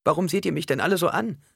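put-on high, plaintive child's question; sweet little-girl voice. A narrator's reading. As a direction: play a little girl who feels stared at. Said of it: "die süße und verlockende Stimme der kleinen Alia". (hohe, süße Kleinmädchenstimme)

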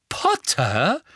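high, ringing address; bell-clear. A narrator's reading. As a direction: call the name out crisp and clear. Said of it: "sagte sie glockenhell".

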